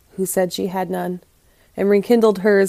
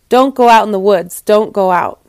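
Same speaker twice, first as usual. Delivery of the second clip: urgent warning; 7 dB louder than usual. A narrator's reading. Villagers warn her off the woods.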